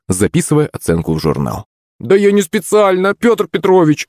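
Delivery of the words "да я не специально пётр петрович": much higher, whiny pleading; student whining to the PE teacher, pitched high; whining plea. Acted. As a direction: whine like a caught schoolboy. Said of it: "законючил Никольский".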